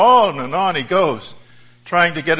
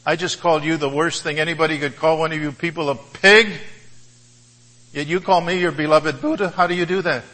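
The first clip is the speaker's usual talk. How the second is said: enraged colonel; 2 semitones higher than usual. Acted. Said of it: "even more enraged".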